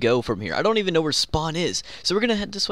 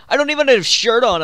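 alarmed; 8 semitones higher, 8 dB louder than usual. Real, not acted. Caught in fight unarmored.

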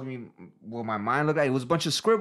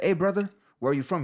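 put-on higher-pitched Indian-accented greeting; 6 semitones higher than usual. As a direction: imitate an Indian man's accent. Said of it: "He's got the Indian accent".

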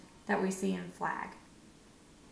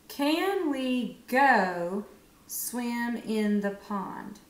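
very slow, word by word; slow checking read; much slower than usual. Shown as a demonstration. Teacher checks the answer by reading slowly. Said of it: "read it to double check".

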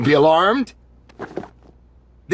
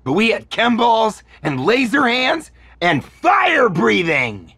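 excited; 6 semitones higher than usual. Acted. Fan gushing about powers.

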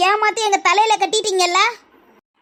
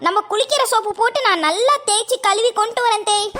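naive daughter-in-law; 2 semitones higher than usual. Acted.

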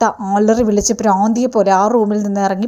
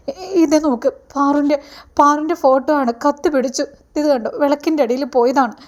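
panicky mother; 3 semitones higher than usual. Retold or imitated. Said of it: "നീ ഇങ്ങനെ അലറി വിളിച്ചുകൊണ്ട്".

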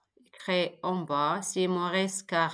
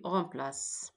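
whispered; 2 semitones lower, 7 dB quieter than usual. Real, not acted. Teacher lists the rebuilt words.

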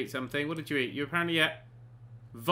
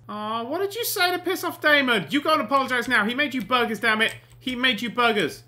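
higher-pitched reproachful telling-off; mock scolding; 4 semitones higher, 3 dB louder than usual. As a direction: scold like a fussing parent. Scolds Sim for upsetting Damon.

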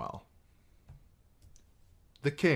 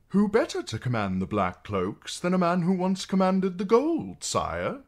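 higher, pleading suggestion; eager advocate; 13 semitones higher, 5 dB louder than usual. Acted. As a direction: push your man's case. Bowen backs Janos.

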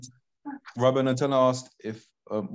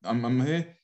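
talking with food in mouth; chewing while talking; slower than usual. Real, not acted. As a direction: mouth full, words round a bite. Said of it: "I'm eating".

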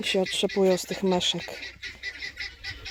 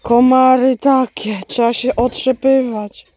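1 loud complaint; 3 semitones higher, 7 dB louder than usual. Real, not acted. Complaining about mosquitoes outdoors.

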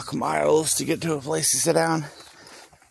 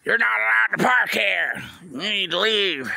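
raised, higher barked order to move along; mock security guard; 7 semitones higher than usual. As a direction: play a guard telling a sleeper to leave. Imagined guard ordering him away.

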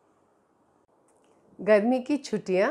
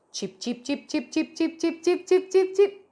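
chirping bird, building; 6 semitones higher than usual. Acted. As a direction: let the chirps grow from a whisper to a high call.

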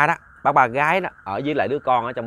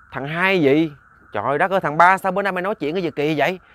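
alarmed father; 5 semitones higher than usual. Acted. Father startled, questions son.

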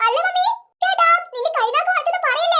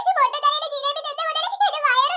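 mock crying wail. Girl faking pain to expose the stall, mock crying wail. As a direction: fake a tearful wail of agony. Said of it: "Parukutty കരഞ്ഞ് നിലവിളിക്കുന്നു".

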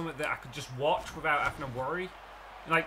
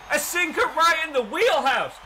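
gloating taunt; 7 semitones higher, 6 dB louder, slower than usual. Real, not acted. Strikes out batter, taunts.

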